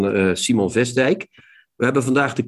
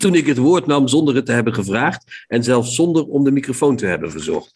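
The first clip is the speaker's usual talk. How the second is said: reading aloud. Acted. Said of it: "Als ik die voorlees".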